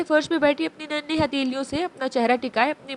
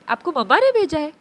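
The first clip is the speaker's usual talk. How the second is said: put-on wide-eyed child, pitched up and louder; amazed; 4 semitones higher, 4 dB louder than usual. Abi asks Abeer in amazement if mother sent her. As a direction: ask it in childlike wonder. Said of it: "आंखों में हैरत लिए".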